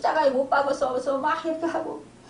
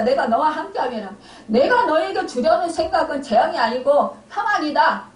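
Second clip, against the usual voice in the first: raised, forceful preaching voice; emphatic proclamation; 3 semitones higher, 4 dB louder than usual. Acted. Preacher declares God's promise of courage to the congregation, emphatic.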